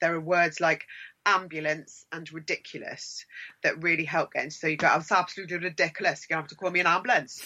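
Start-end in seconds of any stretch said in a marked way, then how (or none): 4.9-7.4 quick, rough sketch of a Welsh accent. Showing words that help get into an accent: Welsh accent. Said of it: "for a Welsh accent".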